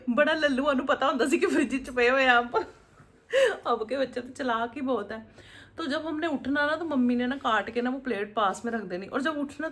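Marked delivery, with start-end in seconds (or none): 0.0-5.6 talking through real laughter, higher and louder; laughing. Real, not acted. Laughs recalling childhood naivety. (हँसते-हँसते बोलना)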